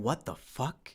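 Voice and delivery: a stunned whisper, almost breathless; whispering in shock. Retold or imitated. Stunned moviegoer whispering in the theater, hushed disbelief. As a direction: breathe it out under your breath, dumbfounded. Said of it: "I was probably verbally whispering".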